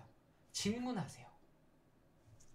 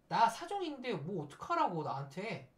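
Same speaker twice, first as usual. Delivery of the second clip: mildly petulant protest; mock child ego; 3 semitones higher than usual. Latecomer to teammate, acted childish defensiveness. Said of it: "아이 자아예요".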